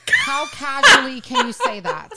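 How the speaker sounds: laughing high. Real, not acted. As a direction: squeal it out through laughter, high. Laughing asking about swearing.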